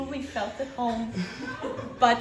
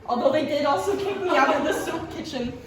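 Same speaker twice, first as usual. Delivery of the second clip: melodramático. Acted. Performs a dramatic soup-chef monologue.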